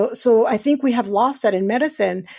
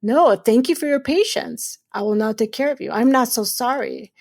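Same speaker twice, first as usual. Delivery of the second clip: steady and assured, no apology in it; confident. Shown as a demonstration. Showing women how to greet patients, confident. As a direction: stand tall and own the moment. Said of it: "It's like".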